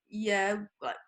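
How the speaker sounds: puzzled why, rising at the end; confused. Retold or imitated. Security questioning a fifteen-year-old girl photographer, confused. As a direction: imitate a baffled security guard. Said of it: "looked at me really confused".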